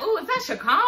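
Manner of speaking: high, giggly fan gushing at a celebrity; starstruck groupie. Retold or imitated. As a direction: gush like a fan spotting a star. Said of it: "like, he a groupie or something".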